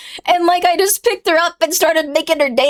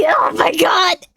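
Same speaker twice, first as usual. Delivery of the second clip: whispered, breathless laugh; a slow, whispered "oh my god" through laughter; crying laughing; slower than usual. Real, not acted. Laughing so hard she's crying at the memory. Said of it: "I'm, like, crying".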